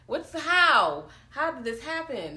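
high-pitched baffled questions; mock bewilderment. Host voicing police arriving at scene, mock bewildered. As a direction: act out shocked disbelief.

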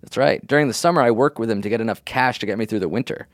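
landscaper voice. Pretend. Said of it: "Now you're doing a voice of somebody you assume is a landscaper".

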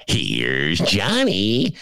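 very slow, drawn-out line; lightly voiced horror line; famous movie line. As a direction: stretch the words like the menacing killer. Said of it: "It's not the".

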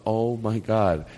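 slow, low-key awe; own amazed manner. Retold or imitated. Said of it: "that's how I talk".

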